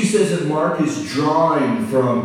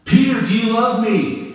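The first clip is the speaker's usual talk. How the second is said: Jesus asking; 8 semitones higher than usual. Acted. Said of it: "It's like this".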